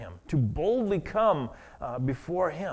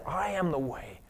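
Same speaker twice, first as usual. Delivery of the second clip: hushed quote of Jesus; 7 dB quieter than usual. Acted. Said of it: "Jesus said".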